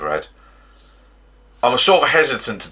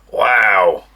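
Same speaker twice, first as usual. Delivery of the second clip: wow through a laugh; amused exclamation after a fright; 6 dB louder than usual. Real, not acted. Laughing after the bottle pops.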